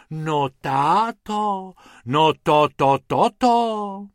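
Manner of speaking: slow, loud amazed stammer; sighing in awe. Acted. Mrs Pumpernáglová sighs in amazement at the rabbits. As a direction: gasp out the words in wonder, slowly and loudly. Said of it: "v jednom kuse vzdychala".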